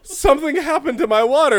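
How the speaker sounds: high, loud outraged cat; the cat yelling it lost its water; mock-furious pet complaining to owner; indignant cat voice.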